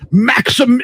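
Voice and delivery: put-on European accent, calling out. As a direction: imitate a European dog owner calling. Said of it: "it was like a European accent".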